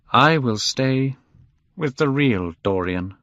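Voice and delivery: slow start, understated sorrow; sadly. A narrator's reading. Painter staying behind with the picture, sad. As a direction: draw out the words with resignation. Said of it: "he said sadly".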